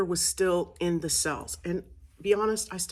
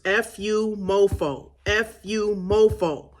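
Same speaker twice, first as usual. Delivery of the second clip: louder, higher angry yell; yelled curse; 4 semitones higher, 5 dB louder, slower than usual. Shown as a demonstration. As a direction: shout it out to release the anger. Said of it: "You're going to yell, you're going to scream".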